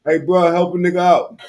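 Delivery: high, loud laughing plea; laughing mock begging. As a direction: mimic the robber asking for help. Mocking the robber's plea.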